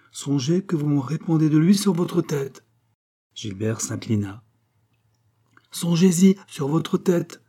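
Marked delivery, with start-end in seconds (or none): 0.1-2.6 higher-pitched, solemn royal warning; solemn queen. A narrator's reading. The queen warns Gilbert about the king's safety, solemn. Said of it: "dit la reine avec un geste solennel". 5.7-7.4 slow, high-pitched regal threat; menacing authority. A narrator's reading. The queen repeats her threat to the doctor, pitilessly imperious. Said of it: "avec la menace et l'impitoyable autorité".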